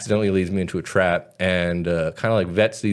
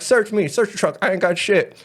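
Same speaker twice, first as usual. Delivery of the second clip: daring challenge; 9 semitones higher than usual. Retold or imitated. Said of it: "I'm like".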